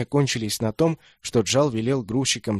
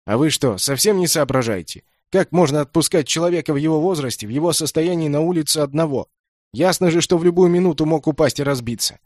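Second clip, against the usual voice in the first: louder, higher rebuke; angry scolding; 5 semitones higher, 5 dB louder than usual. A narrator's reading. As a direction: scold the son for letting him out alone. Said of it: "сердясь, спросил".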